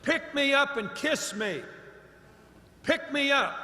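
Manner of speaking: a hint of a pleading frog; frog's voice. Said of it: "and the voice said".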